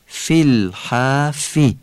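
slow الحافی with both kasras as clear "i"; Arabic kasras. Shown as a demonstration. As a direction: say فی الحافی with short, pure i vowels. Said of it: "کسره ها هم دقت کنید عربی بگید".

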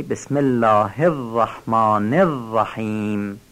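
slow, dwell on the doubled ر of الرحمن and الرحیم; held تشدید. Shown as a demonstration. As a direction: hold each ر in الرحمن and الرحیم with care. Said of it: "با مکس و دقت بگیم". (مکث روی تشدید رای الرحمن و الرحیم)

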